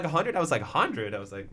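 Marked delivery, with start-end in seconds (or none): 0.0-0.3 higher, rising question; lightly voiced mom, lifting the pitch to ask; retold casual question. Retells mother naming the sum. 0.6-1.1 falling echo at usual pitch; understated disbelief, imitating your own reply; retold doubtful echo. Retells own doubtful echo of sum.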